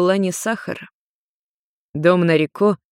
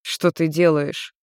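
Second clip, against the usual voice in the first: surprised; slower than usual. Acted. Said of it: "удивлённо спросил Йен".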